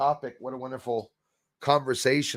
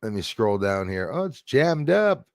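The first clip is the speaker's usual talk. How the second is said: ordinary delivery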